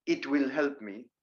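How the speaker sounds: "It will" as two full words; uncontracted IT WILL. Shown as a demonstration. Teacher showing what sounds strange, uncontracted "It will". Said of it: "it sounds a bit strange".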